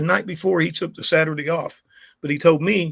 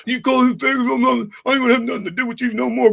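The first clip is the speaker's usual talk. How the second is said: higher, fast, indignant son's voice; imitating upset son; 7 semitones higher, 4 dB louder, faster than usual. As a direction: mimic the kid storming off in outrage. Son Wyatt yelling at father.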